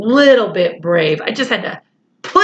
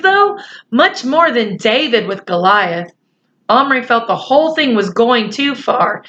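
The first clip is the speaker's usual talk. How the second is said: lightly voiced children's story reading; story narration; 2 semitones higher than usual. A narrator's reading. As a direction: read the story along evenly to young listeners.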